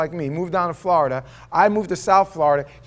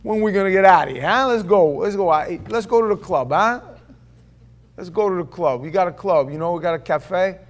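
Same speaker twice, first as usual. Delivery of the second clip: cocky bravado; 3 semitones higher, 5 dB louder than usual. Retold or imitated. Young man showing off to friends in church, loud cocky swagger. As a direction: brush it off like a cool kid. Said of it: "But on the outside, I was like".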